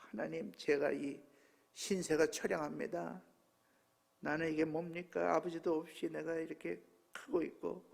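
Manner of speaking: softly reenacted self-pitying prayer; retold lament. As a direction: pour out a quiet complaint to God. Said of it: "하나님께 하소연하고 싶어갖고". (나직하게 재연하는 하소연 기도)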